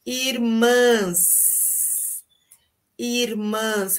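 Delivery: irmãs with nasal ã before the s; teacher's nasal irmãs. Shown as a demonstration. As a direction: hum the ã of irmãs through the nose. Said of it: "E no feminino, como fica o som?".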